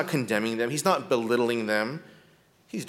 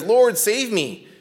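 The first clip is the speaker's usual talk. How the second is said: pleading cry; 8 semitones higher, 6 dB louder, much slower than usual. Acted. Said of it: "Peter says".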